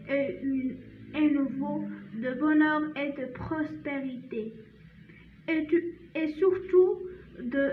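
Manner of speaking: slow French read-aloud, stopping and restarting; halting poem reading. Shown as a demonstration. Teacher reads the poem one last time, slow halting recitation. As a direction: read carefully phrase by phrase, with hesitations.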